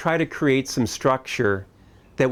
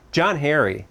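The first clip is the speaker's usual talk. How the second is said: put-on raised-pitch scolding of a child; mock stern; 4 semitones higher than usual. Dad losing patience with his five-year-old, mock stern. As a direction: call the boy's name in mock exasperation. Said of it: "angry look on my face and tone of voice".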